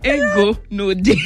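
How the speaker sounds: laughing attempt at Igbo. Real, not acted. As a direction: draw out "Ego no dey" through amusement. Repeats botched Igbo amid laughter.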